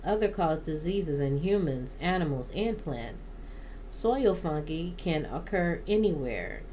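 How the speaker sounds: measured informational read-aloud; steady reading from a guide. Real, not acted. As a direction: read it out from a plant-care book. Reads a plant guide aloud.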